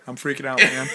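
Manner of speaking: understated, unexcited delivery; deadpan mock panic. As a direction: claim panic without acting it. Plays himself beside friend's frantic act.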